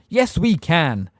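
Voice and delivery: slow, firmly offended reply; insist, plainly affronted; old witch indignant at the minister. A narrator's reading. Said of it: "said Miss Fig indignantly".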